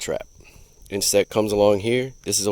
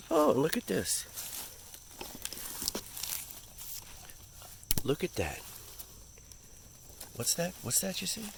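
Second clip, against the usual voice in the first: high cooing voice; 8 semitones higher, 15 dB quieter than usual. Real, not acted. Spotting a frog, talking to it.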